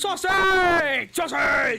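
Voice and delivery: gleeful yell; a joyful outburst at a funny word; excited shout. Real, not acted. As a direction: shout it out, delighted. Delighted outburst at commentator's word.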